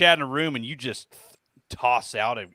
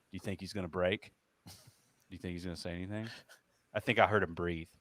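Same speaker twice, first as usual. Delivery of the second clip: much softer, hushed and curious; hushed viewers; 8 semitones lower, 10 dB quieter, faster than usual. Retold or imitated. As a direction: whisper it like tense viewers. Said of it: "eighty people on there just being like".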